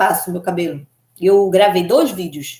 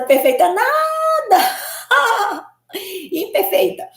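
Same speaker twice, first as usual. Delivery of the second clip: high, drawn-out laughing protest; laughing high sing-song; 12 semitones higher, much slower than usual. Real, not acted. To a viewer's compliment, a sung laughing denial. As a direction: sing it out through laughter, much higher.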